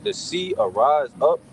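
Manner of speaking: slow, measured verse reading; scripture reading. Real, not acted. Reading about the earthquake to the group, deliberate scripture reading. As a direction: read it out phrase by phrase, with weighty pauses.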